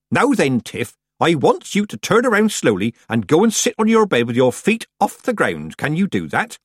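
high, emphatic country-woman voice; loud, high village granny giving orders; hearty old witch. A narrator's reading. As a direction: instruct firmly as a rustic old witch.

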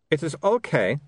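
put-on high-pitched vampire accent; accented vampire Otto, forgiving. Vampire character's dialogue.

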